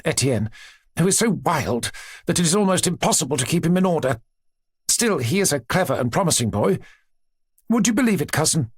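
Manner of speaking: a hint of a gushing princess; lightly voiced chatty princess. Princess telling her aunt about her children, lightly gushing.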